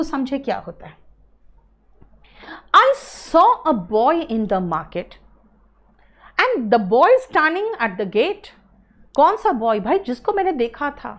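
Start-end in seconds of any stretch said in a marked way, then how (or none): 2.8-8.5 slow example reading. Shown as a demonstration. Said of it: "teacher example sentences".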